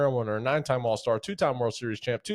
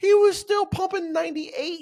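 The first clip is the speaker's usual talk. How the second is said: awed, excited, high-pitched voice; 5 dB louder than usual. Talking about an older pitcher's recent strikeout, in a high-pitched voice. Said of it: "I got the high pitched voice".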